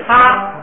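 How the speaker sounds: 他 drawn out on a high level tone, aspirated. Shown as a demonstration. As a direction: hold 他 high and even. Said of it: "变成平声是他". (高平调送气地念“他”)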